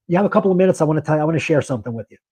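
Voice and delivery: fast, offhand and careless, rattled off. Shown as a demonstration. Banker showing the wrong way to ask a customer, careless and rushed. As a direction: toss it away as if it doesn't matter. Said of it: "You're not saying it like you couldn't care less".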